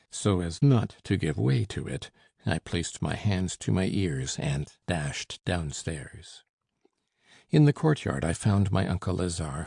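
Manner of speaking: plain reading voice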